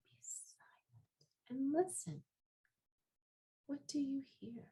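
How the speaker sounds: very soft, secretive hush; hushed whisper. Real, not acted. Presenter inviting children to be silent and listen, whispered. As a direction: whisper so nothing disturbs the listening.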